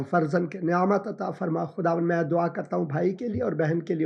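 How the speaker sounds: earnest spoken prayer. Acted. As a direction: pray steadily over the family. Pastor prays for caller.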